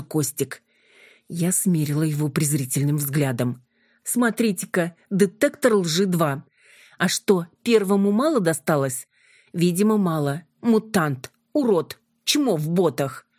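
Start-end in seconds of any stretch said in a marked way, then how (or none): 4.0-13.3 scornful mockery. Юля издевается над Костиком.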